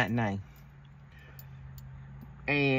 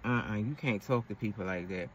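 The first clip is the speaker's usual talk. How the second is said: lower, softer "uh-uh" and a patient correction; calm boyfriend; 4 semitones lower, 4 dB quieter than usual. Retold or imitated. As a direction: disapprove calmly, low and soft. Boyfriend correcting her again.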